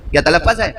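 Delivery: تلفظ as "ta-laf-faz", offered as an alternative; alternative pronunciation talaffaz. Shown as a demonstration. Speaker testing listeners on the word, تلفظ ending in "-faz". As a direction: say تلفظ with a short a in the last syllable. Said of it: "صحیح تلفظ نہیں کر سکتے تھے".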